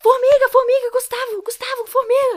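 shrill, very high, very loud panicked, frightened yelling. Retelling waking up in fright at night, retelling a frightened shout. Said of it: "acordei no susto, assim, gritando".

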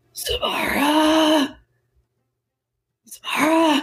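slow, long, drawn-out calling out.

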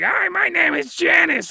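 very high, creaky, annoying voice. Describing voices that grate, demonstrate an annoying Janice voice. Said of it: "your voice is annoying".

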